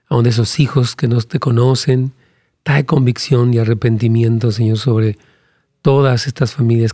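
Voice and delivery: steady earnest prayer voice. Acted. Pastor praying for families on a livestream, earnest prayer. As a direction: pray aloud over the couples, unhurried.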